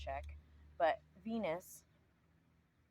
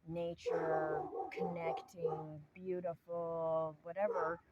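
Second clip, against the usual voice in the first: slow, drawn-out airy listing of virtues; mock dreamy self-praise; much slower than usual. Mocking people who talk nice but litter, slow and airy. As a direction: parody the smug nature lover, dragging each word. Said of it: "And we say".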